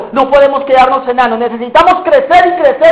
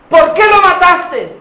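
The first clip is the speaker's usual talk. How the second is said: interrogating judge; 6 semitones higher, slower than usual. Acted. Trial questioning the accused.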